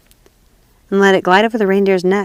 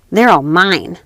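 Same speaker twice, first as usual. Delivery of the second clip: put-on proud, louder possessive girl; robber girl; 4 dB louder, slower than usual. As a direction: boast it, a bit louder.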